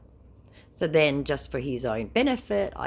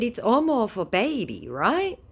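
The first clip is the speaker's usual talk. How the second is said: high put-on mock voice; mock scammer phrasing; 9 semitones higher, 4 dB louder than usual. Taunting the scammer with his lingo, high mock voice.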